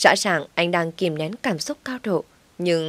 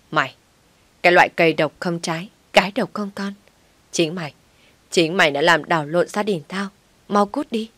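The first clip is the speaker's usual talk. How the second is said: angry cursing. Acted. Mother-in-law cursing the childless wife, furious. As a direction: spit the curse at her.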